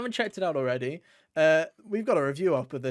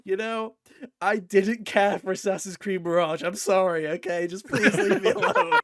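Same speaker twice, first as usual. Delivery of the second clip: mock pleading; 4 dB louder than usual. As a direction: beg to be left alone, breaking into laughter. Acts out a plea to critics.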